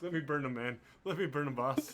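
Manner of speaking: excited henchman straining to be let loose; eager underling pleading. Acted. Game master acts an eager, restrained underling.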